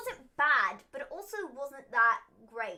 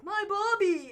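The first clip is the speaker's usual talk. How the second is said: high, loud mock accent with an r-less Barbie; Lana; 9 semitones higher, 7 dB louder, slower than usual. Mocking a wrestler's weird way of saying Barbie, high loud imitation. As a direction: pitch it way up, imitating how she says it. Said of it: "Lana's like".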